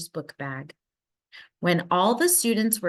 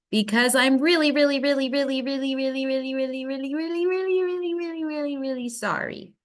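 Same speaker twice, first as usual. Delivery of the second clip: high, sing-song string of reallys; 6 semitones higher, faster than usual. A narrator's reading. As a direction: stretch every really higher and higher. Lily's drawn-out apology.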